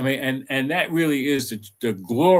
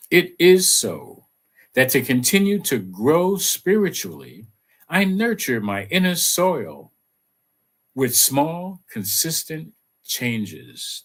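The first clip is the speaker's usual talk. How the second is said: affirmation read. Acted. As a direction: recite it like a gentle mantra. Repeats affirmation.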